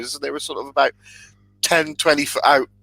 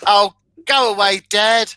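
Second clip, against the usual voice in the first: put-on louder, higher teenager brushing off dad; teenage daughter; 4 semitones higher, 4 dB louder than usual. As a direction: play an exasperated teenage daughter. Answers as the embarrassed teenage daughter.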